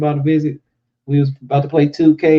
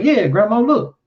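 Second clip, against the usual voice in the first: showing grandma; 8 semitones higher than usual. Retold or imitated. Acted reply to grandmother.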